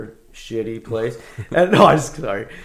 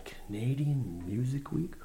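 incredulous; 2 semitones higher, slower than usual. Retold or imitated. Incredulous retelling of friend's invite.

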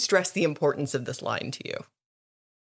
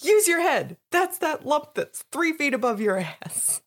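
Tom Hanks; 9 semitones higher than usual. Retold or imitated. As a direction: bawl out a player in a movie-coach impression. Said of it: "As Tom Hanks would say".

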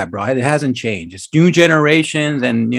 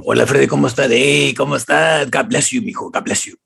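put-on uncles' Mexican accent; 3 semitones lower than usual. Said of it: "All my uncles".

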